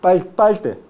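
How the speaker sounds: "parte" said as "palte"; lateralized r. Shown as a demonstration. Teacher demonstrates lowland Spanish, "parte" with l before t. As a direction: put l for the r in "parte". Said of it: "consonante lateral".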